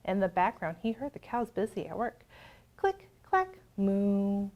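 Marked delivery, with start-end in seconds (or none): 2.8-3.6 high, bouncy click clack; typewriter clicks. A narrator's reading. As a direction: tap it out like keys. Typewriter sound refrain.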